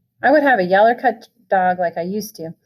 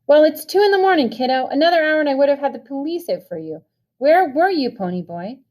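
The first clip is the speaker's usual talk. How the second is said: rising anger; 6 semitones higher than usual. A narrator's reading. Brother demanding where Pony was at two a.m., rising anger. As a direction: let the anger climb with each question. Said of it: "His voice was rising".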